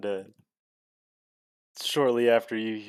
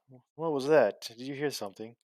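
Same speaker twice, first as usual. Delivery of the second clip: higher, stumbling startled question; a touch of alarm at a noise; mildly startled; 4 semitones higher than usual. Acted. Startled character hears a noise.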